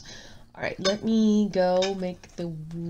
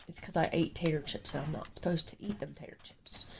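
whispering; 3 semitones lower, 6 dB quieter than usual. Real, not acted. Joking confession about chips.

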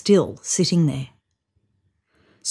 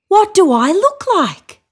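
high, louder call; 12 semitones higher, 6 dB louder than usual. A narrator's reading. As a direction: call out eagerly across the creek. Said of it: "called out".

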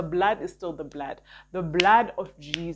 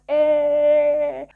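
exclaiming; 9 semitones higher, 10 dB louder than usual. Real, not acted. Exclamation mid-sermon.

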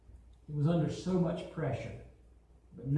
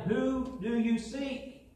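slow, commanding question; 6 semitones higher, slower than usual. Acted. Jesus asks again.

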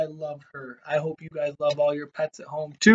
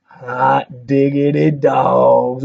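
playful exclamation; 4 dB louder, much slower than usual. Real, not acted.

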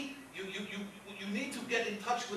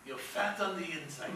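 from the belly; 4 semitones lower, 7 dB quieter than usual. Shown as a demonstration. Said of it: "put your hand on my stomach".

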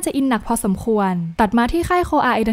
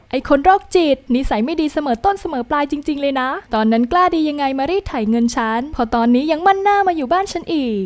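higher-pitched mock tirade, lightly acted; imagined heroine scolding the creep, higher pitched mock rant; 4 semitones higher than usual. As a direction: tear into him like a fed-up heroine, half in jest. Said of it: "สวดธรรมะไปหนึ่งบท".

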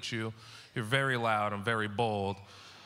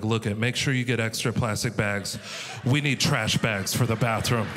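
parent instructions; 2 semitones lower, 5 dB louder than usual. Retold or imitated. Parent sending kids for bags.

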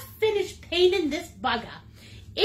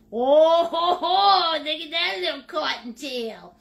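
gushing delight; 3 dB louder than usual. Acted. Gushing over her Easter bunny painting.

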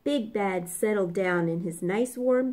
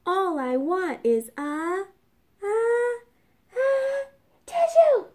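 building sneeze; 10 semitones higher than usual. Acted. Wolf asks for a tissue, climbing into a sneeze. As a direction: stammer up toward a big sneeze.

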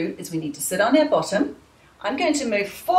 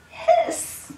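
angry cat hiss. Shown as a demonstration. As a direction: hiss like a cross kitty for the kids. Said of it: "how to be an angry cat".

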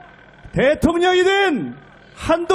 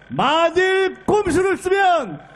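shouted warning; 2 semitones higher than usual. Real, not acted. Rally warning climax.

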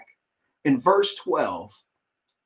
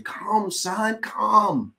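loving invitation; 5 semitones higher, much slower than usual. Retold or imitated. Father calling his elder son inside, tender. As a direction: coax him in tenderly. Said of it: "but a loving invitation".

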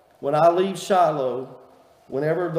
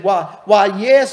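put-on high, loud, sugary old lady's "why, yes"; Miss Pearl's sweet drawl; 4 semitones higher, 9 dB louder than usual. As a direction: gush it out like a sweet Southern lady. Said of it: "so that's the way she talked".

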